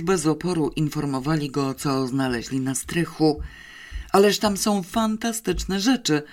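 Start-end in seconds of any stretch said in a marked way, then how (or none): 4.1-6.2 raised, delighted exclamation. A narrator's reading. Captain marvels at the attic finds, raised delight. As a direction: marvel at the treasures. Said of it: "wykrzyknął w końcu szczerze zachwycony".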